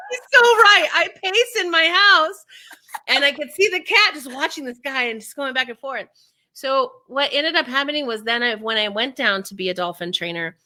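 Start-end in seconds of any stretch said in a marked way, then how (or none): 0.1-6.1 high voiced client.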